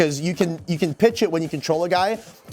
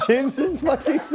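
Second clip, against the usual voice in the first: laughing while talking; 8 semitones higher than usual. Real, not acted. Laughing fit.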